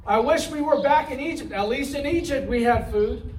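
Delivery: mock grumbling about starving; mock complaining. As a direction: gripe like a hungry, ungrateful crowd.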